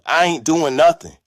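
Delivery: high, loud refusal; defiant yell. A narrator's reading. Husband who had enough of aunt's bossing, defiant yell. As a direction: yell back, fed up. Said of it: "he yelled".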